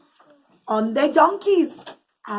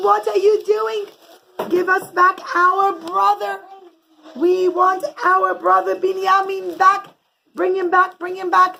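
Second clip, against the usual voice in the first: raised, loud demand; demanding brothers; 6 semitones higher, 4 dB louder than usual. Acted. Brothers demanding their brother back, loud. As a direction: insist on getting him back.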